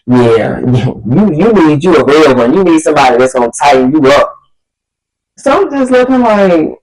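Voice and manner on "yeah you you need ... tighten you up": mock cocky date. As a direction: lean back and drop the voice cocky. She voices date's cocky line.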